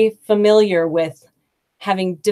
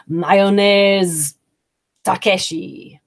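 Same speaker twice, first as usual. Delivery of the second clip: student mangling the phrase; much slower than usual. Retold or imitated. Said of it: "Lots of students learning how to say".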